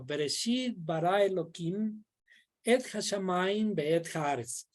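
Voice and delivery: teacher reads the complete verse aloud in Hebrew; full verse recited. Shown as a demonstration. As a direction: recite the whole Hebrew verse in one flow. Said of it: "Yo voy a decir todito".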